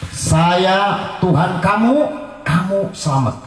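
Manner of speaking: slow, drawn-out tyrant's pronouncement; Pharaoh's decree. Retold or imitated. Pharaoh tells Asia he is her god, slowly and drawn out. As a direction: lay out each word slowly as a tyrant. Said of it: "Fir'aun berkata".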